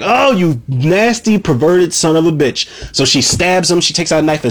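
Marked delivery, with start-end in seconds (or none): 0.0-2.7 slow, high mock disgust at the start; disgusted insult. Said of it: "it's just like".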